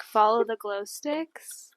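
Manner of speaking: softly imitated ASMR instruction; slow, soft guiding voice, mimicking a video; imitating ASMR host. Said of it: "she'll be like".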